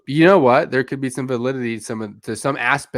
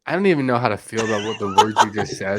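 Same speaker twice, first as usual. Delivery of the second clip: laughing; 4 dB louder than usual. Real, not acted. Reacting to absurd prediction.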